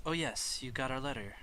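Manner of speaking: high, pleased and formal; proper professor. Acted. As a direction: spot the letter and brighten. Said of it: "She goes".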